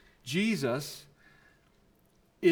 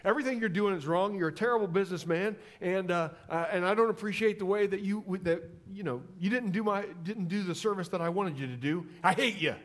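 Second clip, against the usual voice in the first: blunt New Yorker; 4 semitones higher than usual. Retold or imitated. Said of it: "they just look you in the eyeball and say".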